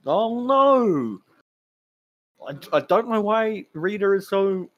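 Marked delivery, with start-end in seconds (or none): 0.1-1.2 high, loud mock alarm. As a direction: gasp it out in fake horror. Mock alarm at Rita's plan.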